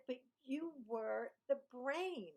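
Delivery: slow, stretched-out retort; slowly spelled-out mock protest; drawn-out disbelief. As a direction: imitate a baffled classmate, dragging each word. Imitates old classmate's baffled reply.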